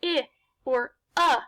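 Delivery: "I" as a short ih, "uh" as a brief schwa; quick reduced vowels. Shown as a demonstration. Teacher explains tired vowels, quick little "ih" or "uh". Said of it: "a very quick little sound".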